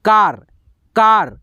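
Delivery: कार with a long aa; car. Shown as a demonstration. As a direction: hold the aa in कार. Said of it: "तो इसका उच्चारण आ आएगा".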